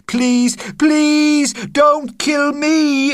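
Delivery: put-on terrified boy begging, high. A narrator's reading. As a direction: beg for your life. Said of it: "I begged".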